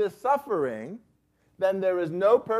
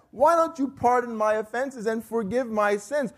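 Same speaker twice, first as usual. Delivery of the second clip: sarcastic plea, pitched higher; Job; 6 semitones higher than usual. Acted. Job asking God to pardon him, sarcastically. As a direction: demand pardon with pointed, mild sarcasm. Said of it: "He are sarcastically asked".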